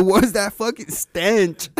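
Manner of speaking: a hint of an appalled mother; imitating a mom. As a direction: draw it out as a mom's mock complaint. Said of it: "Your mom said".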